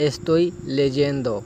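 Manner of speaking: slow, careful Spanish, each syllable clear; slow model phrase. Shown as a demonstration. Teacher modelling a Spanish phrase for students, slow and careful. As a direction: model it slowly for learners. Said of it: "اسی طرح آگے ہے".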